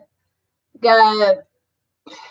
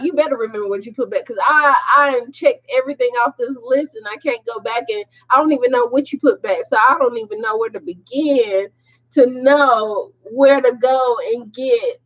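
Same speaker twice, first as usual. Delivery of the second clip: angry rant; faster than usual. Retold or imitated. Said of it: "I was angry".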